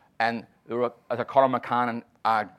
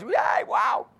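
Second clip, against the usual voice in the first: crowd cheer. Retold or imitated. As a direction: whoop like an excited crowd.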